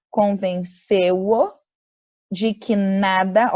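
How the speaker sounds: slow and loud, each word set apart; teacher reading slowly and loudly; slow emphatic reading. Shown as a demonstration. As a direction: spell the sentence out for the class. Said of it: "olha a palavra negativa".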